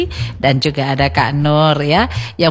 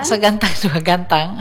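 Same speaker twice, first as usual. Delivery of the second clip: said through a laugh; giggling as she corrects; 3 dB quieter than usual. Real, not acted. Corrects song title, laughing.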